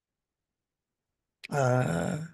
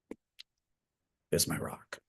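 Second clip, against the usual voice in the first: choked up; 11 semitones lower, 11 dB quieter, much slower than usual. Real, not acted. Grieving her late father.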